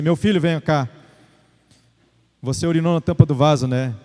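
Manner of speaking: low, calm father's voice; calm, tranquil. Retold or imitated. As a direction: address the child calmly, without scolding. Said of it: "muito calmo, tranquilo, dessa forma". (pai falando calmo e tranquilo)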